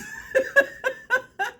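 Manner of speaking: bright high burst of laughter. Real, not acted. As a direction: let out a high giggle. Laughs at her own remark.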